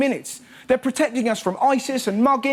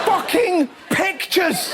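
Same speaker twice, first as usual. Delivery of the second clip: incredulous outrage; 7 semitones higher, much slower than usual. Real, not acted. Outraged exclamation.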